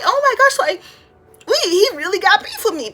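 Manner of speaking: high-pitched disbelief; mock shock. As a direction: squeal it like a kid who can't believe it. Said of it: "I was like".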